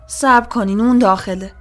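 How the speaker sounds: loud call to hold fire; urgent shout. A narrator's reading. Woman shouts at armed police, urgent loud plea. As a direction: shout it out to stop them. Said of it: "داد زدم".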